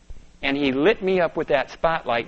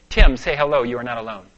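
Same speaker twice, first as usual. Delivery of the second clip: inner voice; 3 semitones lower, 6 dB louder than usual. Retold or imitated. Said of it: "a voice goes off in my head".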